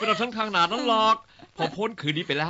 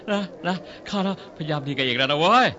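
rough; 4 semitones lower than usual. Acted. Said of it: "พูดเพราะๆก็ได้".

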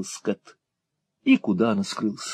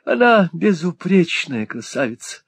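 much higher, breathless raving; smitten young lord; 11 semitones higher, slower than usual. A narrator's reading. Lovesick lord praising the girl to Hawk. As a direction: rave about her like a lovesick boy.

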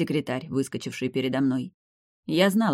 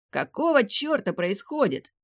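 much higher furious demand; roaring; 8 semitones higher than usual. A narrator's reading. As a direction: bellow it, outraged. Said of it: "взревел Нарейн".

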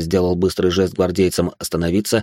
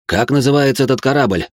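tense question; 6 semitones higher, 3 dB louder than usual. Acted. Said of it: "напряжённо спросил у них Кассиан".

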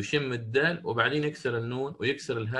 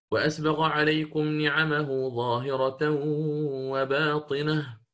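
Hafs recitation; 2 semitones higher, slower than usual. Shown as a demonstration. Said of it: "في قوله تعالى في سورة لقمان".

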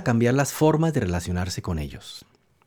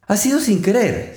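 put-on higher, a touch of a girl's apology; apologetic; 7 semitones higher than usual. Alice apologizes to the offended mouse, lightly higher, meek. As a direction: say sorry meekly, a little higher. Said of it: "se disculpó la pobre Alicia".

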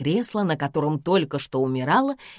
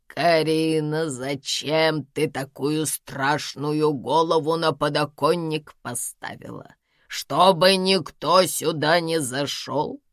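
put-on old woman scolding; slower than usual.

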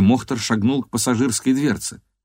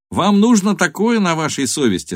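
pleading; 9 semitones higher, 4 dB louder than usual. A narrator's reading. Captive pleads with gunman.

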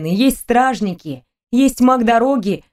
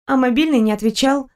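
Stella's light voice; 3 semitones higher than usual. Acted. Stella quoted.

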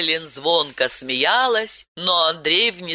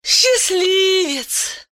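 sigh; much slower than usual. A narrator's reading. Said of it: "вздохнула Айлен".

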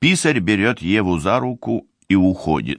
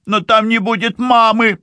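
put-on high, anguished girl's cry; grieving young woman, pitched high; man doing a woman's voice; 4 dB louder than usual. A narrator's reading. Livi cries out about mother.

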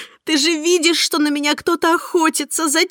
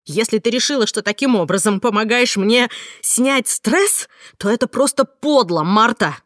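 higher, louder, cold reproach; bitter scolding; 4 semitones higher, 5 dB louder than usual. Acted. Heroine condemns Marta on the phone, bitter angry scolding. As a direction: lash her with hurt and contempt.

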